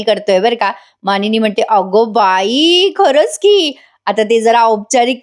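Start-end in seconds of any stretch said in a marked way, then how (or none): 1.6-3.7 a mother's amused gasp of surprise; surprised delight. Retold or imitated. Mother-in-law exclaims at her son's cooking skill in drawn-out surprise.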